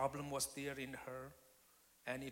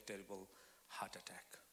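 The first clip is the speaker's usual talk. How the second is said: whispered, dropping away; almost lose the voice on it; hushed telling; 6 semitones lower, 13 dB quieter than usual. Real, not acted. Preacher recalling wife's heart attack, hushed whisper.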